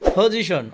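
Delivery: পজিশন opening with a puffed "pho"; P as aspirated ফ. Shown as a demonstration. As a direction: start পজিশন on ফ instead of প. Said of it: "পি এর উচ্চারণ ফ হবে". (পজিশন, প এর জায়গায় ফ)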